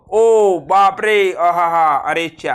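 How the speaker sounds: drawn-out exclamations of wonder; slow amazed cries. Shown as a demonstration. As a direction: stretch out the amazement. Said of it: "बोंबलू बोंबलू सांगितलं होतं".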